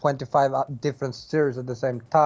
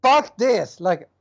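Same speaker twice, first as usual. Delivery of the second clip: higher-pitched burst of mock exasperation; fed-up retold outburst; 5 semitones higher than usual. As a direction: act out giving up in frustration. Retells own fed-up reaction to mission.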